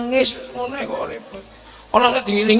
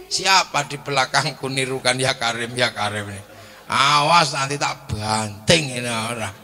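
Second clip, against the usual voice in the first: irritated threat; 8 semitones lower, 3 dB quieter than usual. Acted. Angry pilgrim threatens follower.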